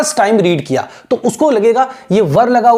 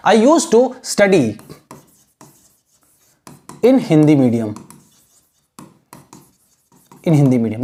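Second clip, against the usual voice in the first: very slow, spaced-out sentence, trailing lower; slow model sentence; 5 semitones lower, much slower than usual. Shown as a demonstration. Teacher reading an example sentence slowly to students. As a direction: read it out slowly, word by word. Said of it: "ठीक है ना".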